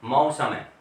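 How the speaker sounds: मौसम with a full a-u glide in the first syllable; correct au in mausam. Shown as a demonstration. Teacher giving students the correct मौसम. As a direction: open मौसम wide as ma-u-sam. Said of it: "तो ये मौसम नहीं है".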